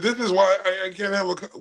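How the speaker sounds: mimicked complaint, cut off mid-word; mimicking her. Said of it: "She said".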